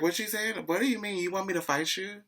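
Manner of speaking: high-pitched acted challenge; high retold quarrel voice; mock confrontation.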